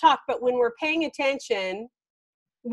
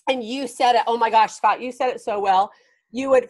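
usual speaking voice

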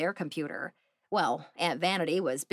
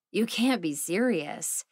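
slowly; slower than usual. Acted. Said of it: "Phoebe said slowly".

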